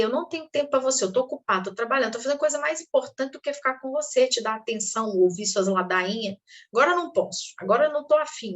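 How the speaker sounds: quick dismissive parent, busy and impatient; brushing off. Acted. Parent brushing off a child, fast and dismissive. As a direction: wave the child away, rattling it off. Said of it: "que dava a entender".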